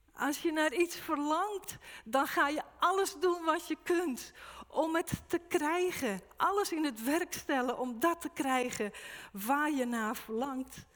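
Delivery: preacher urging the flock toward holy hunger; fervent preaching. Acted. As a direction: drive it home with rising zeal. Preaching at full force.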